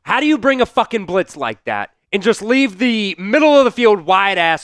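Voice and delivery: real fan fury at a blown blitz; pissed off. Real, not acted. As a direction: vent at the defence in disbelief. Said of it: "I'm officially pissed".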